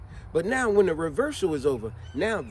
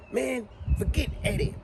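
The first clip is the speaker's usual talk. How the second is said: heckling rival; 5 semitones higher than usual. Retold or imitated. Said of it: "saying stuff like this".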